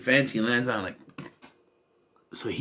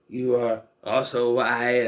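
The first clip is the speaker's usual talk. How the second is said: slow, deliberate retort; slower than usual. Retold or imitated. Repeats retort slowly for emphasis.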